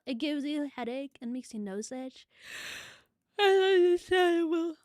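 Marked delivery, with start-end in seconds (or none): 2.8-4.7 sighing reply. Real, not acted.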